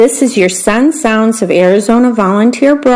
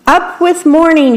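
high chant-like call; beetles shouting; 8 semitones higher than usual. A narrator's reading. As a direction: rally cry of marching beetles. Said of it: "shouted the beetles".

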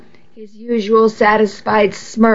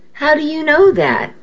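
startled question; 7 semitones higher than usual. A narrator's reading. Miguel startled by her knowledge.

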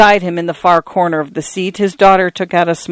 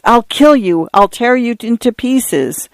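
furious threat; 6 semitones higher than usual. Acted. Beating the man in rage.

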